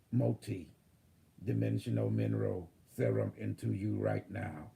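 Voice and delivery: calm robotic system readout. Acted. Channels AI healing protocol.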